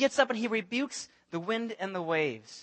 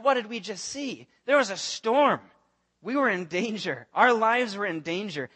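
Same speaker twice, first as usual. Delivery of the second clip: higher, urgent retelling of the danger; frightened disciples; 3 semitones higher, 3 dB louder than usual. Acted. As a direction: voice the disciples' rattled panic. Disciples voiced after storm.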